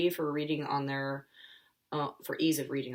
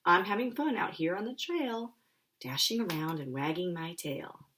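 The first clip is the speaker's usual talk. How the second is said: cheerful dog; 4 semitones higher than usual. Acted. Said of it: "Jake growled cheerfully".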